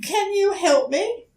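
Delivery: put-on high, hesitant small-child voice; young turtle politely asking a stranger for help; timid little turtle. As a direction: ask shyly, a little scared. Franklin asks the duck for help.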